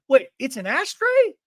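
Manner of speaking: high puzzled question; Mary Cosby. Retold or imitated. Onlooker mistaking the gift, in high mock astonishment. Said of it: "Mary Cosby goes".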